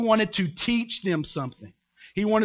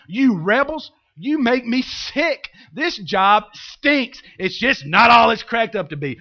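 acted exasperated rant, building louder; fed-up Moses; 2 semitones higher, 4 dB louder than usual. Moses venting at the complaining people, fed-up acted tirade. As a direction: lay into them as Moses. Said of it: "I think he just had it".

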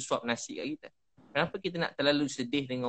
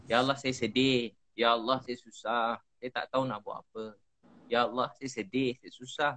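understated sadness in a repeated supplication; sorrowful prayer; 3 semitones lower than usual. Shown as a demonstration. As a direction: plead gently, unhurried, pitch dropping a little. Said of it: "Kalau sedih sangat".

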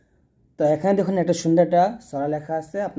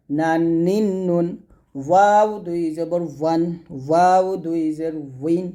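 slow recitation drill; slower than usual. Shown as a demonstration. Teacher recites tanween drill.

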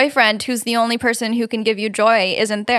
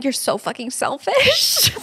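mock tearful whine; 4 dB quieter, slower than usual. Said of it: "him just replying".

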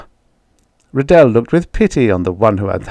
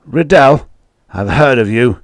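astonished farmer; 4 semitones higher, 5 dB louder than usual. Acted. Farmer recognizes name.

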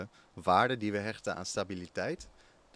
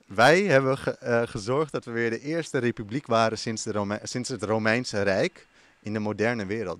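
loud, proud declaration; proud emphasis; 6 dB louder than usual. Real, not acted. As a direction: proclaim it with pride. Proud emphatic history claim.

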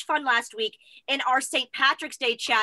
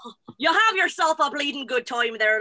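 put-on Irish accent. Shown as a demonstration. Showing friends the chat's party trick, Irish accent. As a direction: have a go at an Irish brogue. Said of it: "try out their Irish accent".

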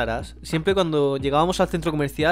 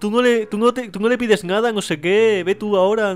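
goading friends; 5 semitones higher, 4 dB louder than usual. Retold or imitated. Friends daring him to ask Santa, imitated high-pitched goading. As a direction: egg your mate on, imitating the gang.

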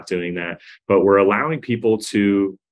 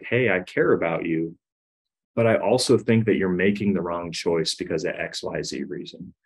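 1 caring tone; 3 dB quieter than usual. Shown as a demonstration. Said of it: "allowing my tone to say".

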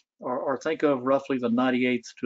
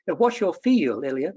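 slow, higher Southern drawl from North Carolina; North Carolina accent; 5 semitones higher, 3 dB louder than usual. Retold or imitated. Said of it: "she had this wonderful North Carolina accent".

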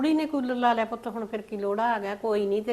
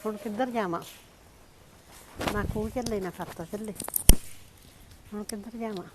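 tearful lament; 7 dB quieter than usual. Acted. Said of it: "ਫਿਰ ਰੋਂਦੀ ਕਾਹਤੋਂ ਆ ਬੇਬੇ".

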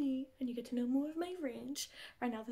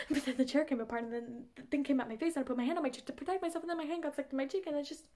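rushed, slightly louder desperate retelling; desperate caller; 4 dB louder than usual. Acted. Telling her friend how her hand got stuck, desperate and rushed. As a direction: blurt out the accident in a fluster. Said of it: "because she is desperate".

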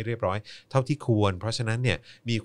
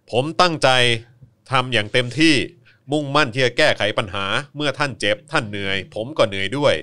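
louder, higher, grand leader's voice; handsome-voice Uncle Tu; 4 semitones higher, 10 dB louder than usual. Retold or imitated. Host reads the PM's words in his handsomest voice. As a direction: declaim like a proud general on TV. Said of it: "เอาเสียงหล่อที่สุดได้ไหม".

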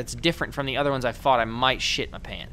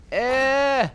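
high, loud squeaky voice; 11 semitones higher, 5 dB louder than usual. Pretend. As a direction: squeak it out, confused. Confused squeaky reactions.

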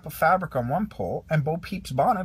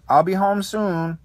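Andy, slow and bright; 5 semitones higher, 6 dB louder than usual. A narrator's reading. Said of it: "Andy said to his toys".

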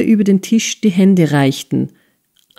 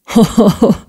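hearty laugh; 4 semitones higher than usual. A narrator's reading. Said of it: "mit einem brüllenden Gelächter".

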